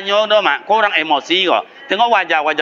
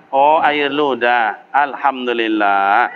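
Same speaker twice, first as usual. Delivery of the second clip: calm acceptance; 7 semitones lower, slower than usual. Acted. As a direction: let it go gently, with gratitude. Prophet voiced calmly after spitting.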